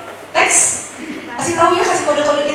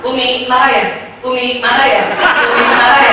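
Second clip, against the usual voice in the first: all in one go; 3 semitones lower than usual. Shown as a demonstration. Husband asking his wife thrice without waiting, all in one go. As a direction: repeat the question back to back. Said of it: "Jangan diborong".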